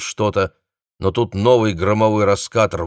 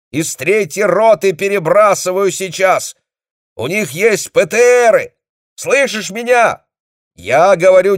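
shouting orders; 11 semitones higher, 7 dB louder than usual. A narrator's reading. Dezhnev shouts orders to the commander over the phone. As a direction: drive the orders down the line.

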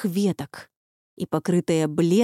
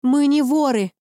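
loud higher cry, stress on не; shout; 6 semitones higher, 4 dB louder than usual. A narrator's reading. Lucy crying out to Baba Yaga, loud protest. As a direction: shout it, hitting не. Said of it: "крикнула она".

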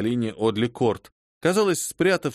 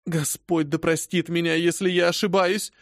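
breathless exclamation; 5 semitones higher than usual. Acted. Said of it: "Задыхаясь, отрывисто воскликнула".

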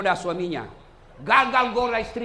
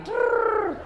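high-pitched rolled trill; imitated trill; 4 dB louder than usual. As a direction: trill a comic sound effect. Imitates curve of painted eyebrow. (bunyi trrr bernada tinggi)

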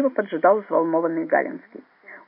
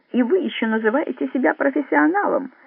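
higher, scornful reproach; near contempt; 8 semitones higher than usual. A narrator's reading. Resident scorns Drongo's professionalism, almost contemptuous. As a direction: look down on him as you say it. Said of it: "почти с презрением сказал Галинский".

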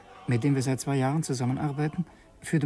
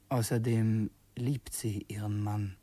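whispered aside; 2 semitones lower, slower than usual. Acted. Diary narration, ironic aside.

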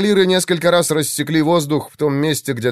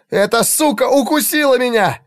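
much higher, furious yell; 12 semitones higher than usual. A narrator's reading. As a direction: scream it, the bite now sinking in. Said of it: "донёсся голос Игнация". (срывающийся визгливый крик)

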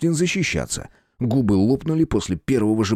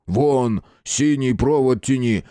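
shouting; 2 semitones higher, slower than usual. Acted. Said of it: "вдруг прокричал Шпала".

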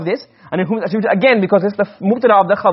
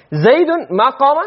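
Zaydun ma qama raised and slow, high and drawn out; teacher presenting an Arabic example to students, said slowly and raised; 6 semitones higher, slower than usual. Shown as a demonstration. Zaydun ma qama said slowly at a higher pitch. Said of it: "takraru isnad".

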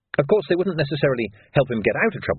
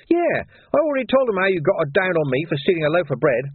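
higher, sneering villain voice; sly thug Carcer; 7 semitones higher than usual. A narrator's reading. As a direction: voice Carcer as a grinning menace.

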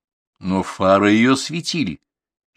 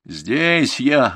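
raised, higher-pitched call back; loud answer; 6 semitones higher than usual. A narrator's reading. Grandson answers his grandfather in the dark, calling loudly. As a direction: call back so he can find you. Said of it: "громко отозвался Артур".

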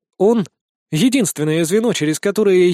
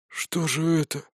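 much softer, hoarse dying rasp; wheezed; 7 dB quieter than usual. Acted. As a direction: rasp it out as the life goes. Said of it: "прохрипел он".

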